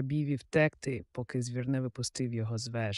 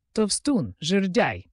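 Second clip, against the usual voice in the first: higher, louder prisoners' taunts; raised-voice name-calling; jeering shout; 5 semitones higher, 6 dB louder, slower than usual. A narrator's reading. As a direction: yell insults like a jeering crowd. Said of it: "закричали всі в'язні разом".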